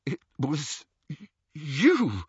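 weak, shivering voice; teeth chattering. Acted. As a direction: stammer through chattering teeth. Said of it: "his teeth chattering".

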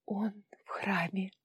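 slow, relieved whisper. A narrator's reading. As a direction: breathe it out in relief. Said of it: "с облегчением прошептала Вара". (шёпот с облегчением)

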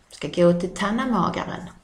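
tannamagaren in broad Scanian dialect; Scanian dialect word. Shown as a demonstration. Teacher showing the Scanian word tannamagaren. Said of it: "Kommer vi till T".

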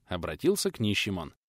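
usual speaking voice

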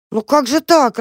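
high, bewildered little mouse; bewildered squeak. A narrator's reading. Mouse Tam pleading with the dog, squeaking. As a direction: squeak it out, at a loss. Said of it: "растерянно пропищал Там".

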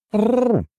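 high rolled prrr of an offended bird; indignant bird trill. A narrator's reading. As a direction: trill it like an outraged pigeon. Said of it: "возмутился Курлык".

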